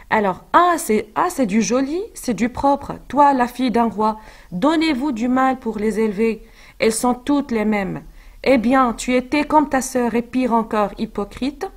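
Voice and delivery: a touch of scolding, read aloud; lightly voiced angry nurse. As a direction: mildly scold the girl as her old nurse. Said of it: "donc elle l'accuse".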